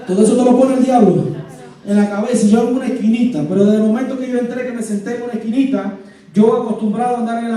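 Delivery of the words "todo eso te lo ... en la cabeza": preaching shout. Real, not acted. Preacher stressing the devil's work.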